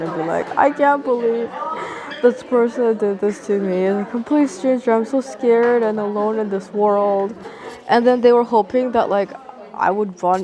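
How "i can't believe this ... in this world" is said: mock breakdown. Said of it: "an emotional breakdown".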